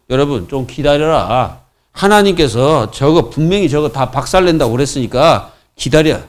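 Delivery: low-key, soothing leader's counsel; calm reassurance. Acted. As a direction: settle them down quietly, taking your time. Models Moses calmly telling people to wait.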